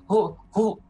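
a hint of goblin questioning. Game master trying out the goblin's voice, lightly goblinish. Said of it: "goblinoid voice".

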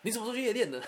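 high, sharp mock scolding of a parent; angry scolding. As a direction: imitate the furious parent slamming the table. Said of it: "拍桌子，然后大骂说".

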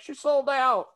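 high, loud heckle; exaggerated high-pitched outburst; mock accusing cry. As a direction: cry it out like a protester. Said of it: "on a dumb podcast being like".

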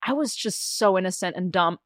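ordinary delivery

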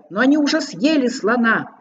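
hoarse, breaking high voice; cracking voice. Acted. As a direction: voice cracking with fear. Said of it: "Голос у зайца срывался и хрипел". (голос срывается и хрипит)

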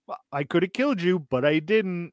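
put-on lightly childlike, fast; a hint of a childlike giant.

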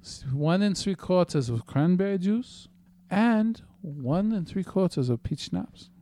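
Tim voice. Acted. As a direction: read it out in a light version of Tim's voice. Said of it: "I have to do the Tim voice".

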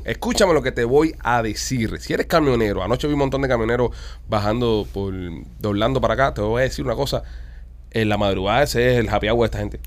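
punchy radio sponsor pitch; live on-air commercial voice; ad read. Acted. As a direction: sell the product to truckers. Reads sponsor ads on air.

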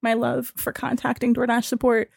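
soft, tender send-up of a support agent; mock loving. Agent signs off to refused customer, mock loving. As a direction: lay on the kindness softly, with pauses. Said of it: "This was the kindest conversation".

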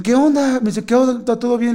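imitated high-pitched checking-in; acted concern. Companions ask the returning man if all is well, imitated high.

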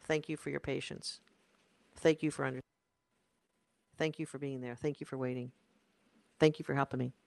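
low-key grateful delivery; gentle gratitude. Shown as a demonstration. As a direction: say thanks with quiet, sincere appreciation. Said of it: "in gratitude and appreciation".

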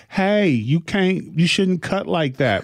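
high, slow, timid objection; meek man's voice. Retold or imitated. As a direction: plead gently, no threat at all. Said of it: "He was a non-threatening voice".

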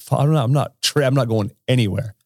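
retold protest, stumbling over the words; imitated going off. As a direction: imitate a stubborn, worked-up passenger. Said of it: "he's just going off".

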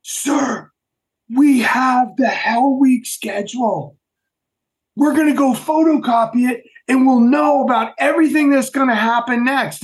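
eager recruits. Retold or imitated. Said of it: "they're like".

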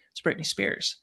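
hushed, secretive whisper. Retold or imitated. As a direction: whisper it so she won't hear. Roommate spotting celebrity secretly.

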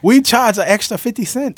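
put-on Asian accent. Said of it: "Did you just do an Asian accent?".

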